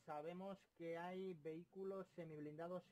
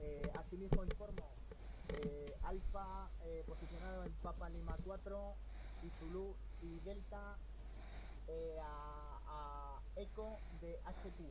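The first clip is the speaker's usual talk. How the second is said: loud clipped radio call for artillery; crackly military radio; 5 dB louder than usual. Acted. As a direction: bark requests over a crackling radio. Pide artillería por radio. (petición urgente por radio militar)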